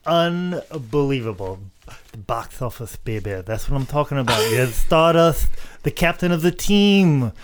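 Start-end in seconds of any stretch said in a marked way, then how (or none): 2.1-7.3 Dusty Rhodes impression. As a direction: lay on the Dusty lisp. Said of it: "bleed into the impersonation".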